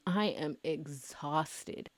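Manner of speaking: tired murmur. Real, not acted. Drained admission again.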